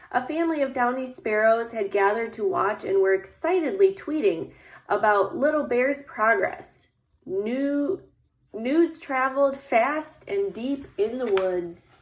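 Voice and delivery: put-on lively, measured read-aloud to children; story narration. A narrator's reading. Teacher reading about Little Bear getting dressed for snow, storytelling voice. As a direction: read it like a picture book, lingering on descriptions. Reads picture book aloud.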